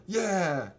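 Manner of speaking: high, loud retold cheering; hammed-up hero's welcome; mock crowd cheer. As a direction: cheer like a whole army, drawn out and high. Voices army cheering the hero.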